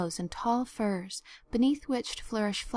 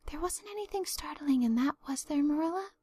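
audible whisper; 6 semitones higher than usual. Acted. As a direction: whisper aside so the hostess might still hear. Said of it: "in an audible whisper".

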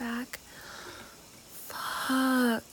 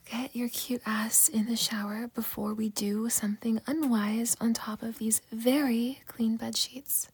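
whispering. Acted. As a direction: whisper it intimately, just for him. Whispered intimate roleplay.

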